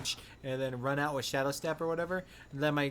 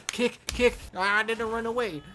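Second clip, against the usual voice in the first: higher, louder, lightly voiced teasing gloat; gloating taunt; 7 semitones higher, 4 dB louder than usual. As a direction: pop back in and gloat, higher. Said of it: "And then he's over there".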